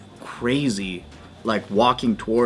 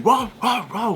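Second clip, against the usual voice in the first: high yappy mock barking; lightly imitated dogs barking; 9 semitones higher than usual. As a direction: bark it like the dogs. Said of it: "the dogs were just barking".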